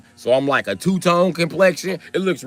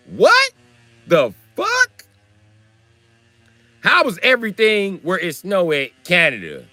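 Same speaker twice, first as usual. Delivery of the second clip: incredulous; slower than usual. Retold or imitated. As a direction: split the words in baffled outrage. Disbelief at their Canada logic.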